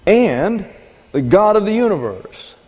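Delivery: fervent sermon proclamation; rising preaching climax. Real, not acted. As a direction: build to the grand reveal. Preacher's climax after long pause.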